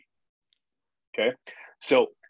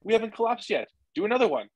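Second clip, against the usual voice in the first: pitched-up, pushy inner voice; the body egging you on, voiced higher; body's voice; 9 semitones higher, faster than usual. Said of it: "Your body is like".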